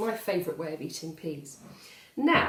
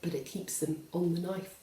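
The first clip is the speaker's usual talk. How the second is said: poem reading. Acted. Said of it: "It goes like this".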